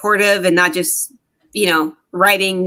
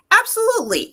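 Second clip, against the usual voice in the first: high, eager mock agreement; gushing yes, pitched way up; 14 semitones higher than usual. Woman mimicking her past self saying yes to a narcissist, eager. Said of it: "you went".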